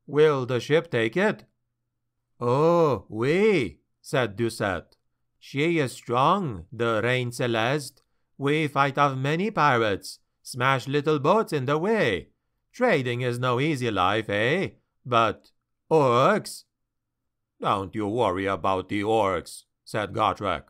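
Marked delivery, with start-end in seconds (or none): 0.1-3.8 put-on lightly French-accented sea captain, worried; a hint of a French trader, fretting over his cargo; a hint of a French accent, pleading his case. Captain answers Felix. 5.4-16.6 put-on lightly French-accented captain, proud then uneasy; a hint of a French boast that sags into doubt on orcs; a hint of a French accent, wary of orcs. 17.6-19.6 gruff dwarf. Acted. Gruff dwarf slayer dismisses danger.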